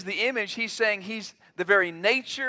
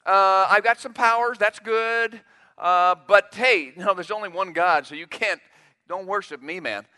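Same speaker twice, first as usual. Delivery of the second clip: hypothetical angel Jesus; 5 dB louder than usual. Pretend. Preacher voicing an angel refusing Thomas's worship, hammed-up casual. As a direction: shrug it off like a friendly angel. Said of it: "He could have said".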